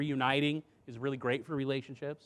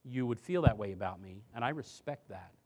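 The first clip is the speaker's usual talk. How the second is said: soft empathetic; 3 semitones lower than usual. Shown as a demonstration. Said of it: "I have to say".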